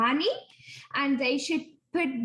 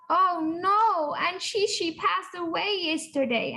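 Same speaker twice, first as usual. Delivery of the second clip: a touch of sadness, higher; sad news; 4 semitones higher than usual. Retold or imitated. Lucia telling her friend her aunt died, mildly sad. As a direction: deliver the bad news with mild upset. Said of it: "Then she said".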